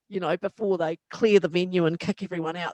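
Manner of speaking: ordinary talk, nothing marked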